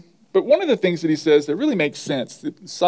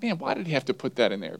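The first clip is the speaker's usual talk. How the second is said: mock grumble; 3 semitones lower, 7 dB quieter, faster than usual. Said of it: "I'm like".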